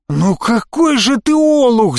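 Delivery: высоко и громко, медленно, в ярости; рявкни на растяпу; заорал. A narrator's reading. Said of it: "заорал он". (громкий злой крик)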